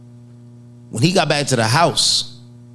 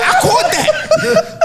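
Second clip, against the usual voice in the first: laughing; much slower than usual. Real, not acted. Laughing emphasis.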